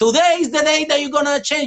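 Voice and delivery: aggressive delivery. Demonstrating one of three speaking voices: the aggressive voice. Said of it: "you call it the aggressive voice".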